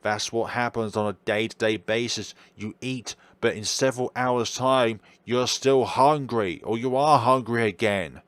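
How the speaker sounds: a lightly voiced, coaxing monster, sly and menacing; sly creature taunting the one who feeds it; creepy monster voice. Monster keeps talking.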